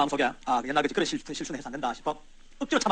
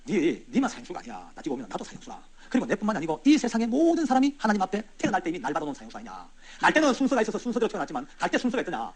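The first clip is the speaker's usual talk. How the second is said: soothing coax. Retold or imitated. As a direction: gently talk him round. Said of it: "달랬죠".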